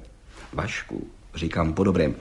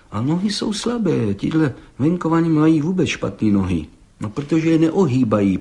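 critical; 3 semitones higher than usual. Acted. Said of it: "pravil pan Hejda kriticky".

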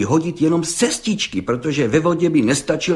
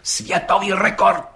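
slow, higher, ceremonious repeat; solemn repeat; 7 semitones higher than usual. A narrator's reading. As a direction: proclaim it like a solemn honour. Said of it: "opakoval četník Hejda slavnostně".

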